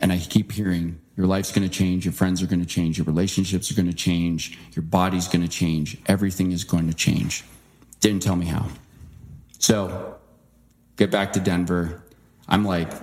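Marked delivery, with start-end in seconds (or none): none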